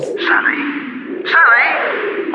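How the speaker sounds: calling out. Acted. Bill calls anxiously down the phone. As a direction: call her name anxiously.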